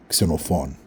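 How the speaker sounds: Xenophon with stress on the last syllable, said at natural speed; Greek name said naturally. Shown as a demonstration. Teacher saying Xenophon naturally to learners. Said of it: "I'll say the name naturally".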